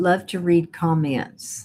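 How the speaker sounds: ordinary talk, nothing marked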